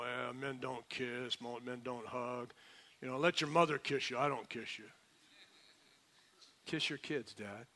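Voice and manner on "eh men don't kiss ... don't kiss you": mock macho dad. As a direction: lightly mimic a tough dad brushing off affection. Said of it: "get all macho and say".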